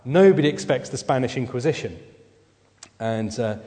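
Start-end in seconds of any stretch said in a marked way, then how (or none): 0.1-2.0 half-shouted comic cardinal's announcement, loudest at the start; mock shout. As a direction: jump out with a loud "Ha!". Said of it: "jump out and shout".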